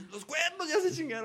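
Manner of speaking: voz alta y afligida, entre risas; papá preocupado. Retold or imitated. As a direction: imita al papá angustiado por el trofeo. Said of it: "don Nacho bien preocupado, así". (papá preocupado riéndose)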